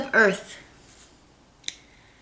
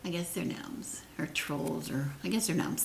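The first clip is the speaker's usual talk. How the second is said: muttering a guess to herself; hushed, thinking aloud; whisper; 3 semitones lower, 11 dB quieter than usual. Real, not acted. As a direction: whisper it under your breath. Musing to herself.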